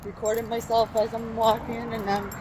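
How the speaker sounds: hiccuping while talking; words broken by hiccups. Real, not acted. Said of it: "hiccuping away".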